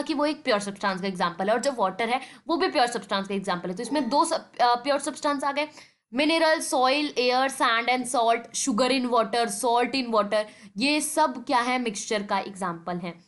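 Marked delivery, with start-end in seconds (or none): 6.1-10.4 each word drawn out slowly for notes; slow dictation. Shown as a demonstration. Teacher reading examples aloud for students to copy, slowly. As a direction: spell out sugar in water slowly for the class. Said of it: "same, same यहाँ पे फिर से".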